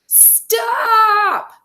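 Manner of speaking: put-on high, drawn-out child's shout; very loud yell. A narrator's reading. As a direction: yell it at full force. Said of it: "Taya yelled very loudly".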